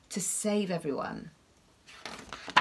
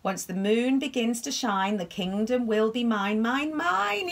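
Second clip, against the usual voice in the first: gloating witch, rising to mine. Acted. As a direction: crow it like a witch. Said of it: "said the witch".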